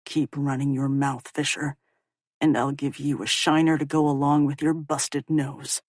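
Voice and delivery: menacing low voice; low threatening young man. Acted. Rowan threatens Justin.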